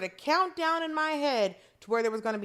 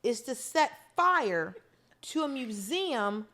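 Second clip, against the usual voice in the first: incredulous; slower than usual. Retold or imitated. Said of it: "I'm just like".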